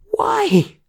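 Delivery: very high, loud whining why; a small girl horrified at the plan; horrified whine. Acted. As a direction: squeal it out in dismay. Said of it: "whined Ava, horrified".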